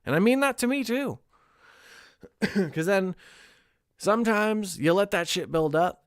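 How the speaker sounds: usual speaking voice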